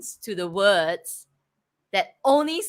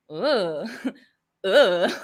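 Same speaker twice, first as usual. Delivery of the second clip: mock ending grunt. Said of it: "the way they end".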